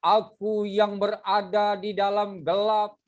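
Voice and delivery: slow, measured reading of a poem line. Shown as a demonstration. Teacher reading a sample poem line to students, slow and measured. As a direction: read it slowly, letting each word sit. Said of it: "boleh teriak-teriak nggak?".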